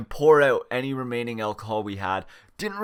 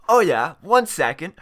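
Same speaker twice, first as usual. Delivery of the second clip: cheeky; 3 semitones higher, 6 dB louder than usual. Retold or imitated. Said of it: "thought it would be funny to go".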